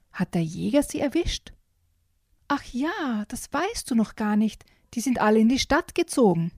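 put-on lively read-aloud of a children's book; picture-book storytime voice with character voices; story reading. A narrator's reading.

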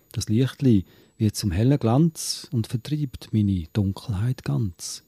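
Swiss German poem, read with pauses between short lines; Gedichtvortrag. Acted. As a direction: recite it line by line, measured. Reads a second poem aloud. (Gedicht auf Schweizerdeutsch vortragen)

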